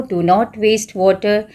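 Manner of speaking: very slow, clear reading; slow teacher dictation; slow example sentences. Shown as a demonstration. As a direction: read each example slowly for the class. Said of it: "water से आप बहुत सारे word बना सकते हो".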